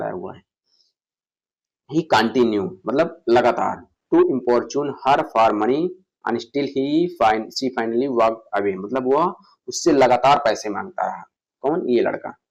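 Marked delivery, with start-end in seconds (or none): 1.9-11.2 slow dictation. Shown as a demonstration. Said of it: "reads example sentence slowly".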